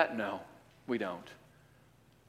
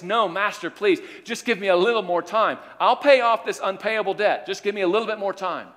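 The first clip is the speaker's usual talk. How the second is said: high, louder desperate pleading; begging servant; 7 semitones higher, 5 dB louder than usual. Acted. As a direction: beg the master for more time, pitched up. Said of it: "he begs and says".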